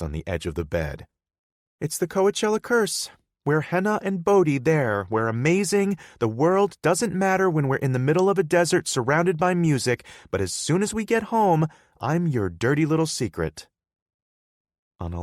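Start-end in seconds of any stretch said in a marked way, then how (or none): 1.8-13.7 put-on higher, louder, upset girlfriend voice; hurt girlfriend Hannah. Hannah confronting Bodhi, higher and louder. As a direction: confront him for shutting her out.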